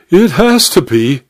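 high, insistent duchess; acted, pressing certainty. A narrator's reading. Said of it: "she insisted".

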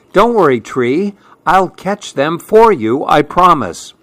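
sweet promise from a small hedgehog; small animal voice. Acted. Fletcher comforts the tree.

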